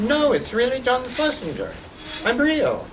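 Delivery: a touch of British, insisting; imitating English accent. Director insists on phone, in mild English accent. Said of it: "that fake English accent".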